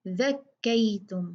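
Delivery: says "ज़क्कैतुम" with the tongue tip at the teeth; correct dhal. Shown as a demonstration. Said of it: "ये क्या है?". ("ज़क्कैतुम" में ज़ाल को नरम th जैसा बोलना)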